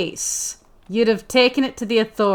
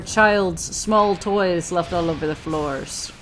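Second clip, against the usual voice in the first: mock-epic boast. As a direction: boast like a legend, half in jest.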